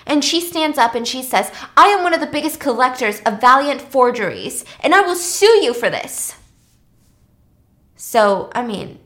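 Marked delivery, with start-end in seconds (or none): 1.8-6.4 mild retold angry threat, louder; acted-out indignant collector, voice lifting at the end; pissed. Woman bidder stands up to threaten, mildly acted anger. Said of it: "she's pissed by this".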